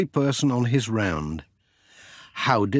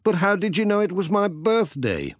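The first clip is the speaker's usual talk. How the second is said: Pat; 9 semitones higher than usual. Acted. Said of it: "said Pat".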